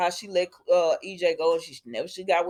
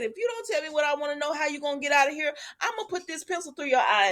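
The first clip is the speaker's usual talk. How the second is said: threat; 5 semitones higher, faster than usual. Retold or imitated. Voicing Kristen's pencil threat.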